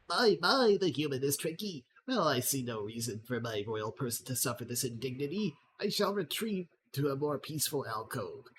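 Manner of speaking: mock-delighted, then haughty retreat; gremlin lord, amused. Wounded gremlin lord mocks the tricky human, lightly haughty. Voices Lord Chuckles after a giggle.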